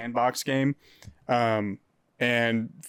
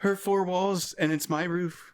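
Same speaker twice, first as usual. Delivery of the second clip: raised, put-on politician impression; Donald Trump; 6 semitones higher than usual. Comedian riffing on teenagers' ages to friends, Trump voice. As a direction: do a high-pitched presidential impression. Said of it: "I did that in Trump voice".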